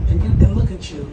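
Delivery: sudden loud jab; shrill anger. Real, not acted. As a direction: snap at him, loud. Confronts deputy angrily.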